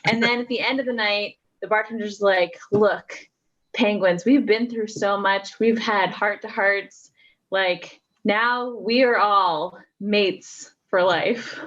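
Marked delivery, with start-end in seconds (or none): 2.7-11.6 slow, heartfelt Irish bartender; Irish accent. Acted. Bartender to penguins after a long night together, Irish accent. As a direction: draw it out slowly in an Irish accent. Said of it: "in amazing Irish accents".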